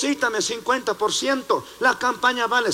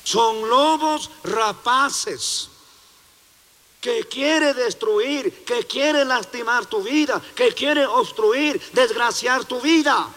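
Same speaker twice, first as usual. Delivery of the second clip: slow, weighty pulpit warning on each line; pleading sermon cadence; preaching at full force; 3 semitones higher, slower than usual. Acted. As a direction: hammer the danger home to the flock. Preacher warns the congregation.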